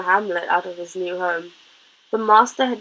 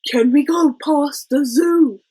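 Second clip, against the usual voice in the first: whispered elephant; 6 semitones higher, 4 dB louder, slower than usual. A narrator's reading. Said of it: "Hamlet whispered".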